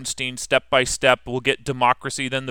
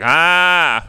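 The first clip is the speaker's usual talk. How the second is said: mock student laugh; 4 semitones higher, 6 dB louder than usual. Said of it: "Yeah, he's like".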